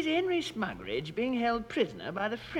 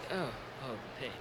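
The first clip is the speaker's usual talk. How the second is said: mock dying groan; 7 semitones lower, 9 dB quieter, much faster than usual. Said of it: "owing to extreme loss of blood".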